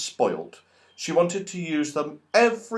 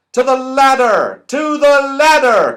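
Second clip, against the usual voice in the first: high, loud urgent call; urgent cry; 12 semitones higher, 10 dB louder than usual. Acted. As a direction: hurry everyone with a shout. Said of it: "cried Moonface".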